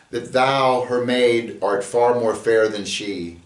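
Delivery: lightly theatrical reading that follows the iambic lilt; poem recitation. Acted. Teacher recites Romeo's soliloquy as an example of meter. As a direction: read it like a verse recital.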